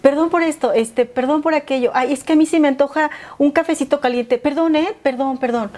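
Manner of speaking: lightly voiced sheepish apologizer; over-apologizing person. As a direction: play someone who says sorry for everything. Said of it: "Hablábamos de".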